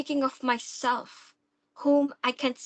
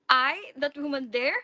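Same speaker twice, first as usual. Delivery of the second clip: incredulous; 5 semitones higher than usual. Acted. Stepdaughter mocks the actress.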